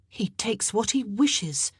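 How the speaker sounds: measured, disdainful remark; disgusted. A narrator's reading. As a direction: say it slowly with distaste. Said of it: "said in a tone of disgust".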